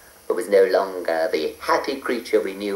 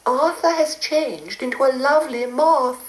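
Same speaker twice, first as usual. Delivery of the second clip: cooing. A narrator's reading. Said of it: "cooed Mavis".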